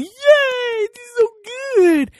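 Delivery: very high, loud, squealed cheer; hammed-up squeaky excitement; mock childish glee. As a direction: squeal it like a gushing little fan. Mocks audience clapping their little hands.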